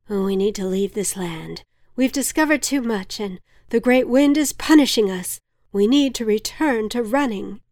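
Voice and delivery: plain reading voice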